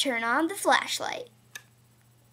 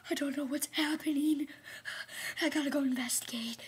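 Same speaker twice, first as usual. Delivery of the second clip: mock frightened whisper; 7 dB quieter, much faster than usual. Pretend scare in the dark.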